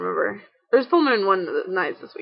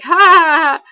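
mock laugh; 7 semitones higher, 7 dB louder than usual. Imitating people laughing at zombies.

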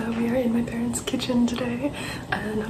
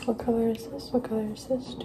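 fast aggressive asmr. Acted. Repeated ASMR color questions.

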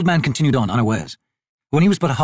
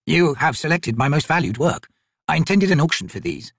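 lightly voiced, formal old merchant; humble old trader; 4 semitones higher than usual. Old trader explains himself to soldiers, mildly anxious and formal. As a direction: plead poverty with careful courtesy.

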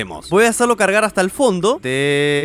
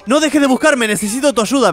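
reading Gregory's line; 7 semitones higher, 4 dB louder than usual. Retold or imitated. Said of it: "me dice Gregory".

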